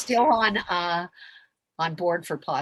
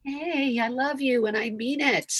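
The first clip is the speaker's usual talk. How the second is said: higher, sighing sincere "I love you"; tender declaration; 6 semitones higher, slower than usual. Acted. Showing how to tell someone you love them, tender declaration. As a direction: sigh first, then say it higher and heartfelt. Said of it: "if we can just actually go".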